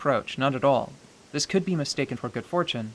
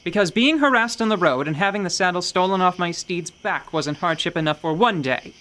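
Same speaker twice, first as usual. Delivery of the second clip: louder, higher indignant rant; indignant traveler yelling down a guard; 4 semitones higher, 4 dB louder than usual. Acted. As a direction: tell him off, affronted. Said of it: "She indignantly yells him down".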